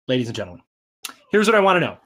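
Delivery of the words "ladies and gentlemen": a lightly done show host intro; low, soft announcer aside; mock host. Host opening the book talk, lightly announcer-style.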